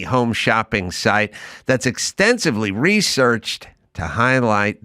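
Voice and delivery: slow, deliberate ad read. Acted. Host reading a Homes dot com sponsor spot, slow and deliberate. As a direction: sell it, lingering on the brand.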